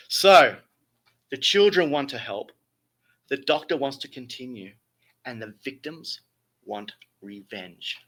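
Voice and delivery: grand theatrical storytelling; Shakespearean voice. Acted. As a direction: read it like an old stage tragedy. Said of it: "I have to put my best Shakespearean voice".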